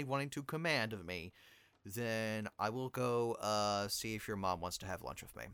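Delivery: smooth-talk her gently; smooth apology. Acted.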